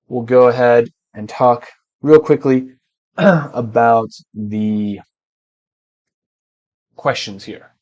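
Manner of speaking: winded, short of breath; talking while catching breath. Real, not acted. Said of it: "I'm out of breath".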